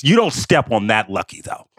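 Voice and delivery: imitated Boston worker, weighty; mock-grave Boston warning; Boston accent with gravitas. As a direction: lay down the rule in a Boston accent. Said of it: "he said it with the gravitas".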